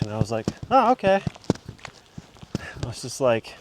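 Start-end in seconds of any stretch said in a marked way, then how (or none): 0.7-1.2 retold surprise. Retold reply to swan warning.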